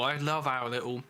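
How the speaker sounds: talking while eating; words round a bite of food; mouth full. Real, not acted. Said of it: "sorry, eating, talking my mouth full".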